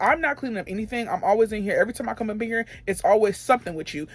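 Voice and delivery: mildly heated retold complaint. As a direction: re-enact a fed-up protest without shouting. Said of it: "I started raising my voice".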